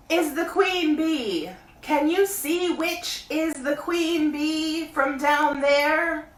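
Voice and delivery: high, loud bear calling down; Pooh voice. A narrator's reading. Pooh calling down to Christopher Robin, high bear voice. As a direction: call up from the honey tree like a bear. Pooh plans deceiving queen.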